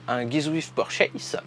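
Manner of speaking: put-on a slow, quiet try at an English accent; mock English accent. YouTuber jokes about his English accent while naming the free gift, slow and soft. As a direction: say the English name in a self-mocking English accent. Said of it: "avec mon magnifique accent anglais".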